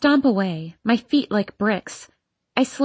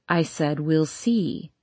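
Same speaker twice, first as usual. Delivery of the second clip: stern; 5 semitones lower, 3 dB quieter, slower than usual. Acted. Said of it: "she repeats sternly".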